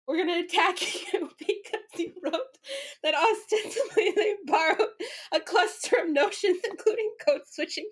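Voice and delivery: high mock-indignant voice breaking into laughter; outraged stan. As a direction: play a pile-on fan, cracking up. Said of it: "all the little stands come and they're like".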